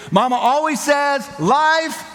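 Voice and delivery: high, drawn-out lead-in for the crowd to finish; prompting the crowd. Shown as a demonstration. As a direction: raise the pitch and hold it out as a cue for them. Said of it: "you just yell it out".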